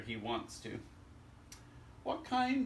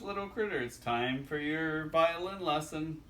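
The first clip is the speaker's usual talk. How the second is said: dad voice; 3 semitones higher, 3 dB louder than usual. Acted. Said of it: "Dad says".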